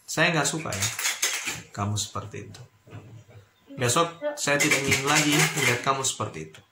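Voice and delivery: measured reprimand, weight on "tidak ingin lagi"; firm emphasis. Shown as a demonstration. Lecturer admonishing a late student, firm emphasis. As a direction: press "Saya nggak suka" firmly, pausing between phrases. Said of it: "ada sebuah penekanan".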